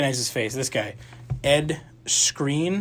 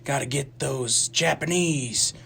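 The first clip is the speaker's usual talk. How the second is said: hard cliche Southern drawl; mock a movie Southerner's thick accent. Friend mocking the war movie's characters, cliche Southern accent. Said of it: "like, Southern accents or".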